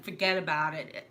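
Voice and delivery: run-together Brooklyn "fuggedaboutit"; Brooklyn accent. Shown as a demonstration. Explaining the sign's spelling, Brooklyn accent. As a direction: slur it into one Brooklyn word. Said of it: "F U G A D O B".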